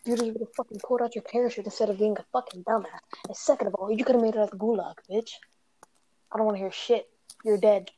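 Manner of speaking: loud scolding rant; angry rant. Real, not acted. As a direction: chew him out hard. Chewing out teammate after death.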